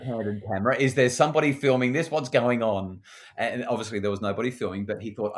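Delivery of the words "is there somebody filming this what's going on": incredulous. Retold or imitated. Dad amazed, suspects candid camera.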